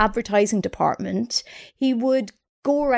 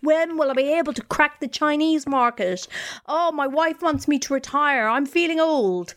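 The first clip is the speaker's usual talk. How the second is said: put-on higher, lightly fretful old boss; mock stressed mogul; 4 semitones higher than usual. Stressed boss whose wife wants him retired, mock fretting. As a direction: moan it as a worried tycoon, mildly.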